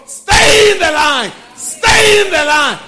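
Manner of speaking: high, loud preaching shout, drawn out; urgent call. Acted. Preacher urging the remnant back to the line, shouting. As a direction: shout the warning to pull them back.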